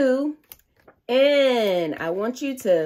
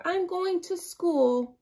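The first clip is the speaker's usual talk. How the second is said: slow, higher I'm going to school; slow example sentence; 9 semitones higher, slower than usual. Shown as a demonstration. Teacher modelling a sight-word sentence for kids. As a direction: sound it out slowly, much higher. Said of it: "Let's use the same sentence".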